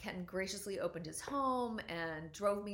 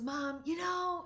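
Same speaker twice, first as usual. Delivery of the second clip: retold teen yell; 9 semitones higher, 4 dB louder, slower than usual. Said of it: "and she was yelling".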